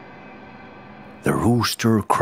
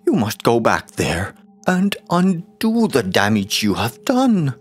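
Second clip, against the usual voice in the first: wife shouting furiously, higher and louder; 7 semitones higher, 3 dB louder than usual. A narrator's reading. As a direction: blast him with a furious wife's fury. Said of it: "The wife was furious and shouted".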